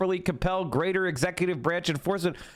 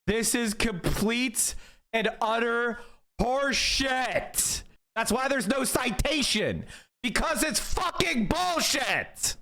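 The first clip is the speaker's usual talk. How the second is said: disgusted, getting more worked up; exasperated rant; 5 semitones higher, slower than usual. Real, not acted. Mocking the opinion, rising exasperated outrage. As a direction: pitch climbing higher into outrage. Ranting at court opinion he reads.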